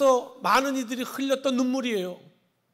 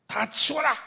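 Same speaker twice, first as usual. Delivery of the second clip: God's command; 5 semitones higher, 4 dB louder than usual. Acted. God commanding, voiced.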